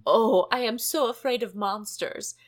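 a hint of a fretful Grover. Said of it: "just did it in a voice".

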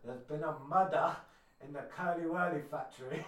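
put-on slow Taggart-style Scottish accent. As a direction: drag out murder in a Scottish accent. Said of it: "go, go on, then".

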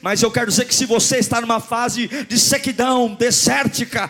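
high, loud, impassioned sermon cry; full-force preaching. Real, not acted. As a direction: preach it out at the top of your voice.

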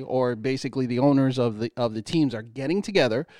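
lightly put-on white guy voice; careful explainer with a hint of white guy voice. Real, not acted. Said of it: "put your white guy voice on".

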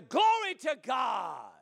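drawn-out, slow cry of praise; praise shout. Shown as a demonstration. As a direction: call it out long and fervently. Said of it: "you gotta shout through it".

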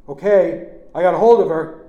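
shouting. A narrator's reading. Uncle holding aunt calls to nephew, shouting. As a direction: shout the news back urgently. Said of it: "Uncle Chick shouted".

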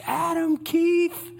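high, slow stern call of Adam Keith; the full-name warning call; mom serious call. Retold or imitated. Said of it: "She added the middle name".

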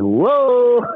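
high, loud, drawn-out whoa; retold stunned whoa. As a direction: stretch out an amazed, high-pitched cry. Stunned reaction to a prophecy retold.

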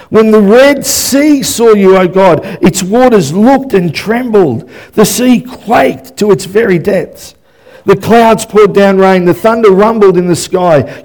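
emphatic, reverent scripture proclamation; impassioned psalm reading. Acted. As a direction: declaim the psalm with rising force. Reads a psalm aloud.

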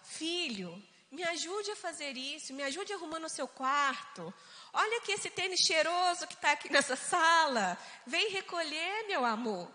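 put-on sweet, coaxing request to a child; gentle parent. Shown as a demonstration. Parent kindly asking son to tidy up, tender. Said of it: "É diferente quando você fala".

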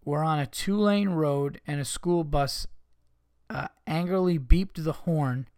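slow, halting read-aloud; reading listener mail. Acted. Host reading out the school bus complaint, slow and deliberate. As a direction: read it out slowly in separate phrases.

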